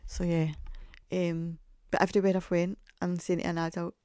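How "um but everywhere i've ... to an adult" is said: ordinary talk, nothing marked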